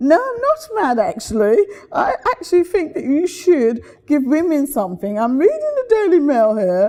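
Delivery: put-on posh accent. Retelling a phone call made from the pr place, in the speaker's posh voice. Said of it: "I'm doing it in my posh voice".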